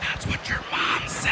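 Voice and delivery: soft whispered punchline. Retold or imitated. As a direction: whisper it into his ear. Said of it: "I whisper in his ear".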